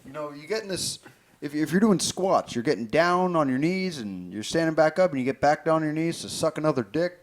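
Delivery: mock fitness host.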